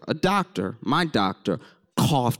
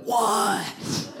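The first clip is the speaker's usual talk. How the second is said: high baffled what; 10 semitones higher than usual. Retold or imitated. Classmates baffled by the engineer, high confused what. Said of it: "And we'd be like".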